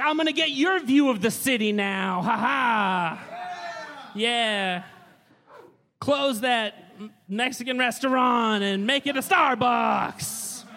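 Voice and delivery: heel wrestler villain. Retold or imitated. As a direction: gloat like a cartoon villain wrestler. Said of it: "I'd be like".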